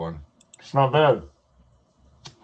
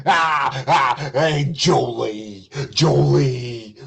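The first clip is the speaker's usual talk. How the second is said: mock flirty greeting; much slower than usual.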